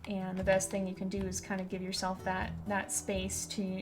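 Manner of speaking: gentle sincere advice. Real, not acted. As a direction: speak gently to someone grieving. Gentle advice to grieving viewers.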